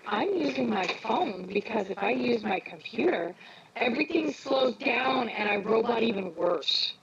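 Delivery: talking into a whirring fan. Real, not acted. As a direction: voice chopped by a fan. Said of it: "you're talking into a, a fan".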